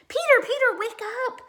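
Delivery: high, loud call to wake him; urgent loud wake-up call; cry out. A narrator's reading. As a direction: shout his name to rouse him. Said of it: "cried Judy".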